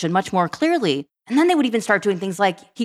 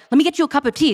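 put-on higher, eager child's offer; imitating caring kid; 7 semitones higher, 3 dB louder, faster than usual. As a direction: play the kid fussing over mom. Mother voicing her caring kids.

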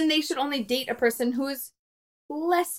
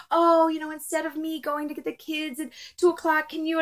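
rambling indirect request self-imitation; 4 semitones higher than usual. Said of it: "It's not my personality to say it".

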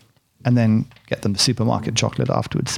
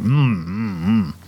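savoring mm sounds with a full mouth; tasting hums; 3 semitones lower, much slower than usual. Shown as a demonstration. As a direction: hum while tasting chocolate. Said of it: "they're just gonna hear me going".

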